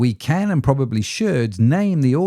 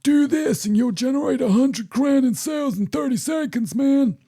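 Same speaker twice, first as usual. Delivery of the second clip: high, mocking American hype-man voice; American accent. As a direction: sell it like a sleazy American guru. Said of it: "stop doing that accent now".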